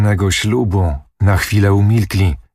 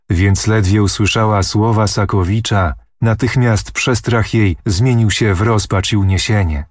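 ordinary delivery

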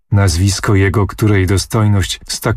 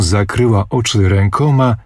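ordinary talk, nothing marked

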